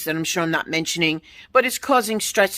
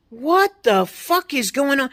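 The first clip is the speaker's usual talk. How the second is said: slow, higher, drawn-out exasperation; exasperated disbelief; 5 semitones higher, slower than usual. Real, not acted. A fed-up customer at the drive-through, slow and incredulous. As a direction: spell out each word in disbelief.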